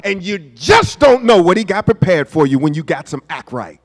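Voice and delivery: imitated Tennessee great-grandmother; folksy Tennessee accent, scolding "Child". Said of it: "What else did she used to say?".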